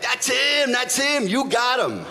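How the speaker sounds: high-pitched excited bystander; imitating a thrilled onlooker; excited identification. Attendant excitedly identifies suspect.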